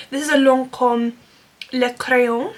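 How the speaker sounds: careful second go at a French accent; better French accent. Real, not acted. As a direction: say the product name carefully in French. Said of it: "That's quite good, actually".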